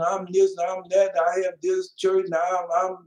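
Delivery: lightly voiced proud preacher bragging about himself; a hint of a puffed-up pastor listing his titles; mock boastful preacher. Preacher mocks boastful ministers, lightly voiced bragging. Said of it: "They proud, arrogant, boastful".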